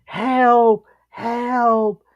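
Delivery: drawn-out mock cry for help; imitated screaming. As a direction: mildly imitate her screams, stretching each one. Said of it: "she starts screaming".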